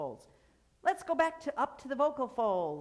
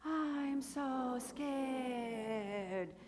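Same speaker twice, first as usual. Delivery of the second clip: very slow, higher, sighing "I'm so scared"; mock scared sigh; 6 semitones higher, much slower than usual. Shown as a demonstration. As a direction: breathe it out like a mock fright. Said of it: "Put your fingers here".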